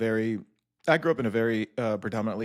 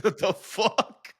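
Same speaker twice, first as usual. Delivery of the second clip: mock disbelief; 9 semitones higher, much slower than usual. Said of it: "I was like".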